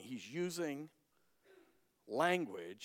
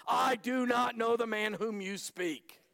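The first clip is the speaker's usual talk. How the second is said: swearing denial; 8 semitones higher, 5 dB louder than usual. Acted. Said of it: "began to invoke a curse upon himself and to swear".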